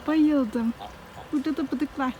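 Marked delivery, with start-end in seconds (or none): 1.3-2.1 panting after the climb; breathless between words; out of breath. Real, not acted. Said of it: "Vallahi nefes nefese kaldım". (nefes nefese)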